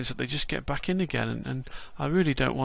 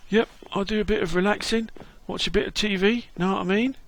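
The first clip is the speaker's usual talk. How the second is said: lightly voiced cheery London geezer, a bit higher; London Bob; 6 semitones higher than usual. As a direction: greet him like a chirpy London mate.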